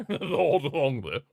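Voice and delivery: laughing. Real, not acted. Laughing at the old player.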